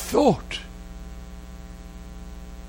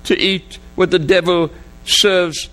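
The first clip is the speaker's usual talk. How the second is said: imitated sobbing plea. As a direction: act out a father sobbing as he begs God. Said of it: "and he sobbed again".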